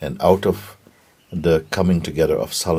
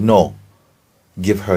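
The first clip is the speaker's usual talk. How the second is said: loud, higher protesting cry; urgent refusal; 4 semitones higher, 8 dB louder than usual. Acted. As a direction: refuse loudly to save the child. Mother pleads to save her child.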